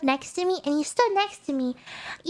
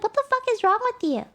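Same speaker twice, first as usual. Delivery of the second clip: quick, raised-pitch mock scolding; retold screaming; 5 semitones higher, faster than usual. Traveller shoving her suitcase at a man, fast mock yell. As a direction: rattle it off as a mildly acted outburst. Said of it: "this is screaming in English".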